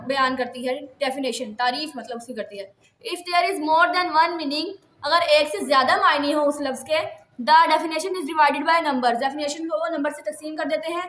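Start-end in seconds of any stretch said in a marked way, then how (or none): 3.0-4.7 slow dictation reading. Shown as a demonstration. 7.5-9.2 slow dictation reading. Shown as a demonstration.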